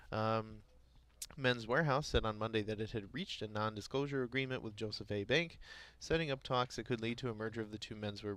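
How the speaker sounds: reading market headlines aloud; news read. Acted. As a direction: read it like a radio business bulletin.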